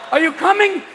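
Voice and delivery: high-pitched mock questioning; impatient question. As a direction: ask it urgently, pitched high. Acted exchange during the duel.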